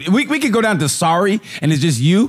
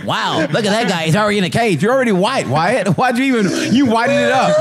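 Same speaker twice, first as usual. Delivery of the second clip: imitating white voice; 3 semitones higher than usual. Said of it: "He go".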